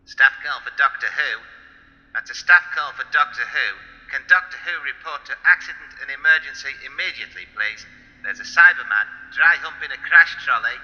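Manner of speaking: mock PA announcement, formal and projected; a hint of a bored hospital announcer; hospital tannoy announcer. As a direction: page the doctor like a hospital intercom.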